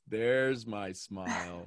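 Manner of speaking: low, soft and very slow; tender. Real, not acted. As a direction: coax a smile out gently. Coach tenderly greeting Laura's returning smile.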